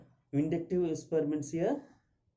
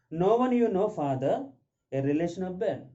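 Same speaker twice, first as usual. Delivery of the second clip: loud; 5 semitones higher, 4 dB louder than usual. Acted. Mrs Slater answers, acted.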